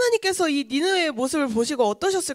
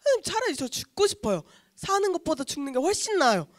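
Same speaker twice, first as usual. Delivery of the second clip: whining; 3 semitones higher than usual. Acted. Jonah begs God to let him die, whining. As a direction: pester with a light, petulant moan. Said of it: "계속 하나님께 이렇게 찡찡대는".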